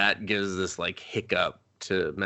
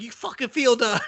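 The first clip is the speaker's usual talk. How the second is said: high, strained comic roar; hammed-up comeback in a yelling match; mock monster yell; 13 semitones higher than usual. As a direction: imitate a riled-up monster, pitched way up. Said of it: "He's like".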